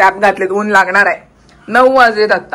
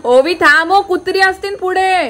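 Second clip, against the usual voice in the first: high warning call; 9 semitones higher than usual. Real, not acted. Vlogger warning Ovi of dogs ahead, calling out.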